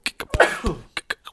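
half-sneeze, half-cough burst; a stifled sneeze that comes out as a cough; sneezing. Real, not acted. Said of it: "I'm gonna sneeze".

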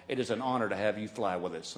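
a lightly voiced military officer; measured respectful salute voice; formal colonel. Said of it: "The colonel ... says".

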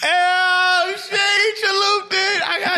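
high, excited shout of surprise; excited outburst. Real, not acted. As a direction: yell it out, caught off guard by the twist. Riddle switched, friend erupts.

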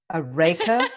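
put-on Australian-accented raker, amused; imitated Australian accent. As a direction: quote it in Australian, laughing. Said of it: "But he called it a".

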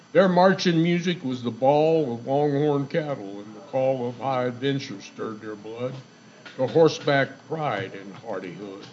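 cowboy poetry. Acted. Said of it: "It's called Old Time Cowboys by S O M R Barker".

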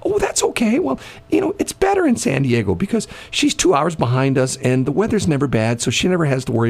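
high-pitched and airily unbothered; breezy high dismissive voice. Retold or imitated. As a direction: brush it off, light and high. Voicing a defender of the mayor.

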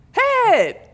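high excited yell of Head; excited shout. Retold or imitated. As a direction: blurt it out loud and high. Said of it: "And Sam goes".

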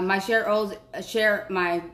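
words slurred round braces; talking through new braces. Real, not acted. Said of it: "I can't even talk with these braces in my mouth".

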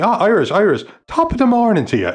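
high, loud mock Turkish accent. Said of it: "in a Turkish accent".

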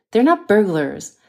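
insisting. Acted. Banker corrects the nurse about the intruders, slow insistence. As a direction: press the point, unwilling to be contradicted. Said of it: "Almasi insisted".

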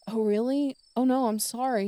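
high, loud surprised apology; a bright surprised sorry; surprised sympathy. Retold or imitated. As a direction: react with surprised dismay. Retelling her reaction on phone.

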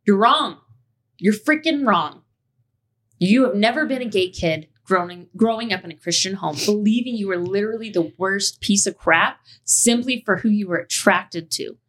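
fierce rebuttal; angry retort. Real, not acted. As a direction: confront the commenter head on. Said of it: "I didn't know how to write".

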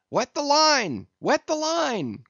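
high, urgent shouted order; loud high-pitched cry of command. A narrator's reading. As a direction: call it out high to an oarsman. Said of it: "cried Stubb to the tub oarsman".

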